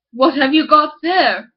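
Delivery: slow, curious man's voice; miller's voice. Acted. Miller asks slowly.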